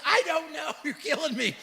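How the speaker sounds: exasperated parent, half laughing; mock exasperation. Dad answering his daughter's repeated question, mock exasperated. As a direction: plead laughingly with a nagging child.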